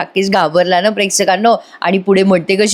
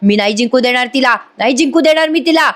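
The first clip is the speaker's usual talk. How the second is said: higher-pitched acted protest, climbing at the end; retold angry yell; 4 semitones higher than usual. Priya refusing to let Sayali win, mild mock yell. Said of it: "ती एवढ्या मोठ्याने ओरडते".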